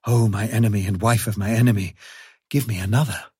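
eager, begging wild dog. Acted. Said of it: "And he said".

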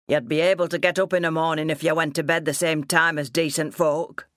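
a hint of a scolding country father; gruff reproach in dialect, lightly acted; lightly voiced stern farmer father. Father scolding daughter over late nights, mildly stern.

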